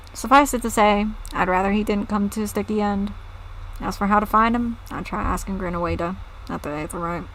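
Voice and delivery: put-on southern accent drifting toward English; lightly voiced villager, accent sliding into English; slipping English accent. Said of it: "into an English accent".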